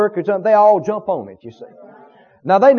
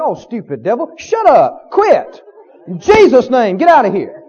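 rebuking the devil. Pretend. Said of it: "You ought to think".

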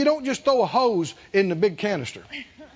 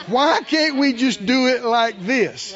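mock whine; slower than usual. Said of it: "how many times Phyllis and I have heard this".

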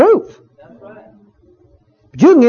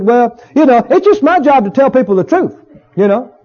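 a mildly smug, dismissive minister; mildly mocking a self-righteous preacher; 3 semitones higher than usual. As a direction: brush off the hurt, lightly mocking. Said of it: "ministers talk like this".

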